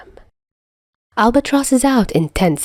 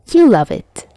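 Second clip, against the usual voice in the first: teasing; 5 semitones higher, 4 dB louder than usual. Acted. Teasing banter.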